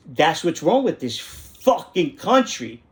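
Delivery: slow, emphatic outrage; retold public tirade; indignant rant. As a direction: drag out the complaint in disgust. Acted rant at the store clerk.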